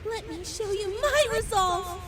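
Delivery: strained battle declaration; defiant resolve. Acted. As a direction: announce your final attack with grit. Girl declares her final attack.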